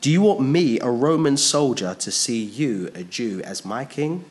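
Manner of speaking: a hammed-up Roman sneering at the idea; angry retort. Pilate angrily rebuffing Jesus' claim to kingship, mock indignant. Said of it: "answered angrily".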